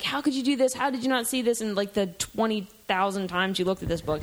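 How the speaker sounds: acted-out inner reproach; angry at myself. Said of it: "then I'm angry at myself".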